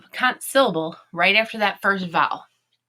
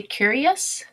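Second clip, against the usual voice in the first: slowly sounded out; 5 semitones higher than usual. Shown as a demonstration. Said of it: "Do we say curious?".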